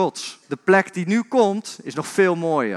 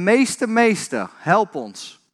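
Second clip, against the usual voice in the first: higher, slow mock cry of Meester, meester; crying out for help; 4 semitones higher, slower than usual. Disciples in the storm call to Jesus, a mild acted cry. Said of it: "En zij riepen".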